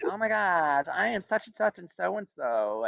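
imitated high-pitched fangirl gush; mock starstruck cheerleader; gushing personality switch. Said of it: "Total change of personality".

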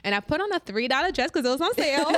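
giggling through the words; laughing. Real, not acted. Laughing at the cheap dress.

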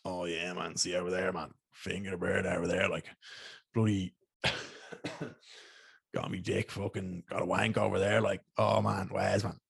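lightly put-on posh South Dublin schoolboy voice; a hint of a posh South Dublin rugby lad bragging; mock South Dublin posh accent, loosely done. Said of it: "posh, for lack of a better word".

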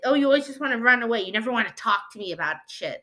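fast, sneering mimic of the ex; mocking ex-spouse. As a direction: rattle it off like the nagging ex. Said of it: "be like".

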